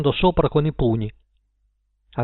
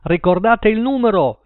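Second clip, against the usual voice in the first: higher, louder announcer; radio DJ; 7 semitones higher, 4 dB louder than usual. A narrator's reading. Sam the Night Owl reminding listeners, DJ voice. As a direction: sell the number to the listeners. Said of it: "disse Sam il Nottambulo".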